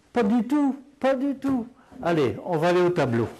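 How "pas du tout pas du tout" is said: high laughing no-no, amused indignation; laughing denial. Real, not acted. Teacher laughing off the claim that patois is bad French, high and amused. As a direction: wave the idea away with a laugh.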